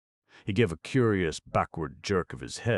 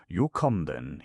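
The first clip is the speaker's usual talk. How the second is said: Derbyshire dialect; 3 semitones higher, 4 dB louder than usual. Acted. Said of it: "using the intonation of the dialect".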